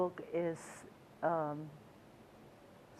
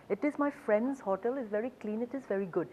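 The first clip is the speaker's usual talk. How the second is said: put-on Hindi accent; 4 semitones higher than usual. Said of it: "my attempt at a Hindi accent".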